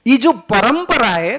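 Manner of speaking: slow, booming declaration; full-voiced preaching; emphatic loud. Real, not acted. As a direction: proclaim it loudly and slowly to the hall. Preacher thunders about the lineage.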